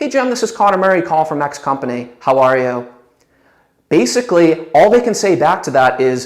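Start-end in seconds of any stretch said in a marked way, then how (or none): 2.2-2.9 downward, falling pitch on "you". Opening a phone call by asking how are you, falling inflection on you. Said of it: "with a downward inflection".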